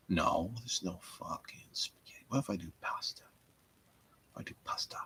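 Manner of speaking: whispered grumbling; hushed disappointment. Real, not acted. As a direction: mutter it under breath.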